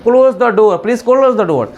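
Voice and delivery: slow, careful classroom English; slow model phrase. Shown as a demonstration. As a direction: say it slowly for learners. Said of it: "अब आते हैं जैसे कि".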